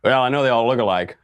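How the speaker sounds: mock Hillary, lightly voiced; a light send-up of Hillary's quip; understated imitation of Hillary; Hillary impression. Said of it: "I can just do the impression for you of Hillary".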